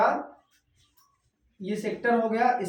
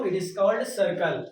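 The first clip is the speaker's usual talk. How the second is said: slow dictation; much slower than usual. Shown as a demonstration. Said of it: "slow English gloss".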